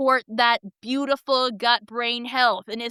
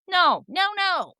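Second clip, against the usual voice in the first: emphatic no; 8 semitones higher than usual. Real, not acted. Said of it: "rejecting the correcting approach".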